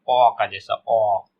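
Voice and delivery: slow, held 'ओ' as an open aw; O sound demo. Shown as a demonstration. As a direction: stretch the vowel 'ओ' on its own. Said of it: "छठा sound है आपका". ('ओ' को धीरे, खींचकर बोलें)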